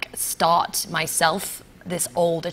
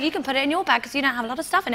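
laughing imitation; 7 semitones higher, faster than usual. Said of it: "he was like".

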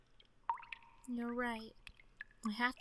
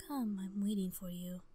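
luring whisper. Acted. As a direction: beckon like a ghost in the dark. Game voice lures player.

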